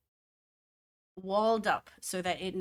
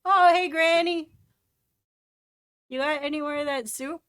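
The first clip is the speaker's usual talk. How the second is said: excited greeting; 8 semitones higher, 10 dB louder than usual. Acted. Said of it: "Sobesh is like".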